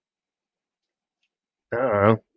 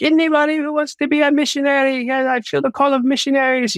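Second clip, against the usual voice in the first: a much higher, hammed-up Romanian preacher accent; Romanian accent impression; 14 semitones higher than usual. Guest imitating Georgian Banov's altar call in a high Romanian accent. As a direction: butcher a Romanian accent, pitched way up. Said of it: "I'm butchering his accent right now".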